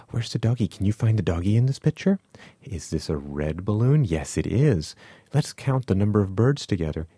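bright, high sing-song picture-book questions; reading to a toddler. Shown as a demonstration. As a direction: gasp and coax a toddler with questions. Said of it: "We say, ... ask your child questions".

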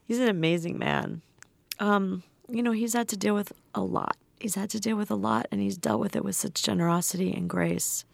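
after crying. Real, not acted. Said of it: "I'm a little teary now".

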